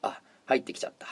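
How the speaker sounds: unvoiced creepy whisper; hushed creepy ghost story. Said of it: "オーナーが入り口の方を見ながら".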